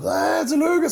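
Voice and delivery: very high, loud re-enacted cheer; excited congratulations. Coach rushing out to his winning athlete, excited mock cheer.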